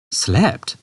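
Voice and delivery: incredulous. A narrator's reading. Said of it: "said Arthur incredulously".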